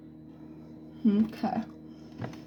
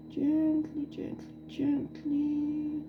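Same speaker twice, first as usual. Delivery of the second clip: soft coaxing; 6 semitones higher, 6 dB quieter, much slower than usual. Real, not acted. Still pouring carefully.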